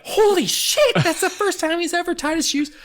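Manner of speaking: high mock-astonished mom; amazed mom. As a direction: shoot way up in pitch, amazed.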